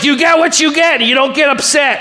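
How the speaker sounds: fed-up teacher laying down the rule; mock exasperated teacher. Shown as a demonstration. Teacher snapping the rule at a whining kid, exasperated. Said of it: "Or are you like".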